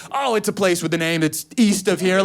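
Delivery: evasive. Retold or imitated. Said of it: "I'm like".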